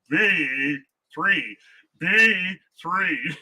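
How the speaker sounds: flat robot bingo caller. Shown as a demonstration. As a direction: call it like a robot voice. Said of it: "that robotic voice".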